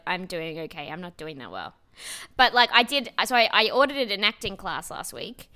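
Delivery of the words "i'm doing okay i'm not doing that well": "I'm doing okay" said low and softer, dejected; glum American okay. Retold or imitated. American admitting things are not going well, subdued. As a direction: let it sink as if admitting failure. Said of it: "In America, that would be like".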